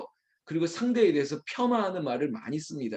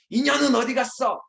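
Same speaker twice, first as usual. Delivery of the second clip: high, raised curse; acted furious demand, pitched up; angry outburst; 9 semitones higher, 4 dB louder than usual. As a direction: burst out cursing the absent one. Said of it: "화를 막 내는 거죠".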